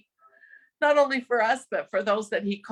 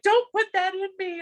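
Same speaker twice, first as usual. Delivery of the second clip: a higher-pitched, half-hearted imitation of an angry refusal; mock mad protest; 9 semitones higher than usual. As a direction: voice him as a cranky patient pushing the drug away, pitched up. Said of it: "he was so mad".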